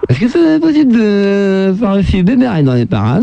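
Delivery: slow, drawn-out silly caller; little prank-call voice. Pretend. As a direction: play the daft caller, stretching it out. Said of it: "Je fais une petite voix".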